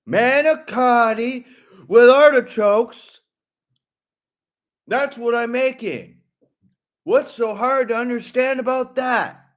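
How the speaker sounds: high, loud exasperation; imitated irate cook. Kid cooking, asked what he's making, mock exasperation. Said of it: "then he goes".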